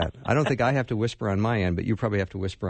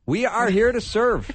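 slow, loud, higher mock tagline; hammed-up slogan echo; 11 semitones higher, 5 dB louder than usual. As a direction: stretch the tagline out grandly. Host echoes the slogan.

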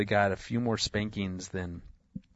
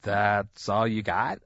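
put-on defiant child; 3 dB louder, slower than usual. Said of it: "she's like".

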